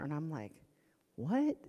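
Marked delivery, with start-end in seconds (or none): 1.2-1.6 high, sharply rising pitch; shocked question. Retold or imitated. Mother hearing son's diagnosis, shocked. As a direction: yelp it in disbelief.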